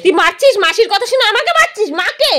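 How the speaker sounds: mock complaint. Mock complaint that child hits her.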